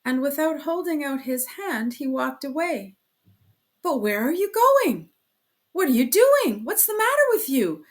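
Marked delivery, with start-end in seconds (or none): 3.8-7.8 at wits' end. A narrator's reading. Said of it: "Razumihin muttered at his wits' end".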